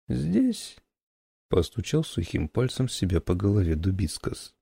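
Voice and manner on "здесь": put-on higher slow creaky old man. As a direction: ancient scholar, slow and creaky. Old man taps head.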